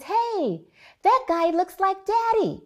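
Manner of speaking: put-on high, bright child's voice pointing something out; imitating an eager five-year-old; excited little boy. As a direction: son spotting a man on the plane, high and eager. Five-year-old son on airplane.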